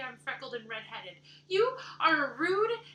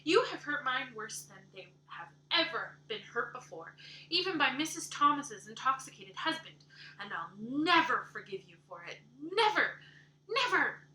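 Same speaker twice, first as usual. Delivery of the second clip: loud, high, indignant shouting; furious outburst; 4 semitones higher, 7 dB louder than usual. Acted. Anne raging at Missus Rachel for insulting her looks. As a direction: hurl the insults back at her.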